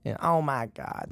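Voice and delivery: imitating a slow Southern drawl; light, drawn-out Southern impression of mom; Southern accent. Son showing how his tiny blonde mom talks, lightly Southern accent. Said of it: "she's, like, all Southern".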